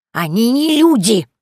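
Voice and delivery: high, loud, slow insistence; nervous old witch insisting; nervous Yaga. Acted. Yaga insists to Vasilisa, high, loud and slow. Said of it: "Яга занервничала".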